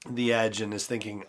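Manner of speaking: ordinary talk, nothing marked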